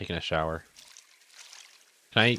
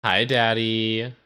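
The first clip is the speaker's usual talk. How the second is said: sweet slow greeting; much slower than usual. Pretend. Greeting duck father.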